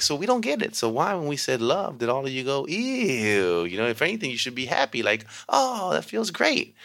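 high, lively teasing voice; animated teacher to kids. Retold or imitated. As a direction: win the kids over playfully.

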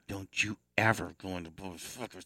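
lightly voiced scolding wife. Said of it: "She's gonna say".

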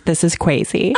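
imitated childish lisp, "crazy" as "kwayzy"; lisping little-kid "crazy", the r softened to w; child's lisp. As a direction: say "crazy" with a w in place of the r. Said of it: "She has a lisp".

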